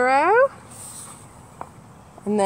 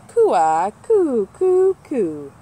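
dove cooing; 4 dB louder, much slower than usual. Acted. Reading birds to kids, a dove's coo. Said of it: "Morning doves take their morning stroll".

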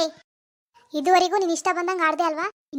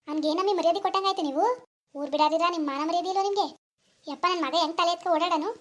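a hint of a grumbling old mother-in-law, softer; scornful mother-in-law; 4 dB quieter than usual. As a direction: mutter bitter taunts about the family's honour. Mother-in-law scolding about family honour. (ಮಾನ ಮರ್ಯಾದೆ ಬಗ್ಗೆ ಗೊಣಗುವ ಅತ್ತೆಯ ಧ್ವನಿ)

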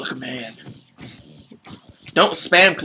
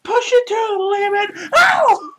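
high, strained battle shout. Acted. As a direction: scream him on to fight. Motivating friend in game.

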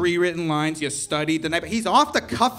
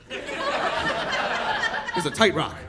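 mock high voice; much slower than usual. Comic aside on The Rock.

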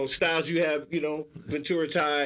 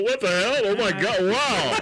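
mock white guy; 3 semitones higher than usual. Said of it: "I don't do the white guy".

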